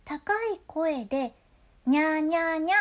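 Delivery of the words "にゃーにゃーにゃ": high-pitched にゃーにゃーにゃ, nya sounds. Shown as a demonstration. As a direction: sing にゃーにゃーにゃ up high like a cat. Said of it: "できるだけ高い声で". (高い声で「にゃーにゃーにゃ」)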